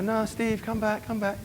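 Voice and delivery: high, mock needy calling back; pleading girls. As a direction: imitate a girl begging him to return. Imitated girls calling him back.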